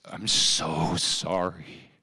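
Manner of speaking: slow, drawn-out mild sob; imitating sobbing apology. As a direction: stretch each word as if crying. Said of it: "and sobbed".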